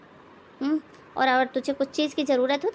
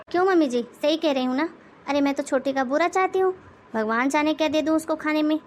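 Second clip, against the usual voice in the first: sarcastic jab; 2 semitones higher than usual. Acted. Sarcastic jab at mother-in-law.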